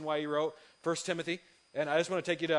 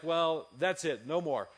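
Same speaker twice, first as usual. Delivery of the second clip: drawn out slowly, insistent; slow promise; 3 dB louder, slower than usual. Retold or imitated. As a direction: stretch each word to sound convincing. Promising wife no more purchases.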